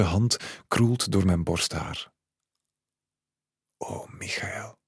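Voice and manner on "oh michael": breathy, slow, voiceless whisper; a lover's hushed whisper to a dead man. A narrator's reading. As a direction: breathe the name out in a tearful whisper. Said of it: "fluistert ze".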